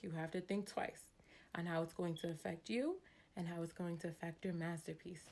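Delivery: measured recital with little lifts; earnest reading voice; reading a poem aloud. Acted. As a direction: read it like a heartfelt saying to other parents. Reads her old parenting saying.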